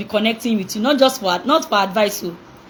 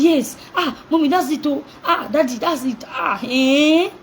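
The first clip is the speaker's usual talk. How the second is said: put-on excited child; 5 semitones higher, slower than usual. Child excitedly gisting mommy.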